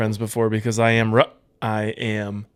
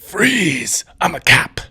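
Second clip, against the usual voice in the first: louder, higher mock command; mock cop shout; 6 semitones higher, 5 dB louder, much slower than usual. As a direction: bark it like a TV cop.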